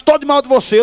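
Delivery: indignant mock falling-out; retold angry declaration. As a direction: imitate a cross kid cutting off a friend. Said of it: "brabo, disse".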